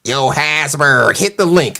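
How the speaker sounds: lightly mocking slow delivery; mock slow talker. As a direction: drag out the name, mimicking his slow talk. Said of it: "talking that slow".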